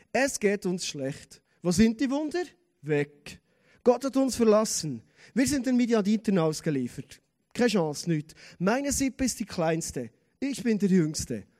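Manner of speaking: mildly acted list of complaints; mock downhearted Gideon; negative Gideon. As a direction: recite each grievance as a separate lament. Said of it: "Die Negativität, die ihm da entgegenkommt".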